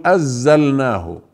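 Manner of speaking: أزلناه with the نون fully merged away, no nasal sound; wrong pronunciation. Shown as a demonstration. Teacher showing the mistaken merging to students. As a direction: drop the نون entirely: أزلناه. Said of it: "ولا ندغم فنقول".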